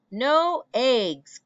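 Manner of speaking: loud, high dismayed cry; shocked outburst at the note; cried out. Acted. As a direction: farmer cries out over the missing eggs. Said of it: "cried Farmer Brown".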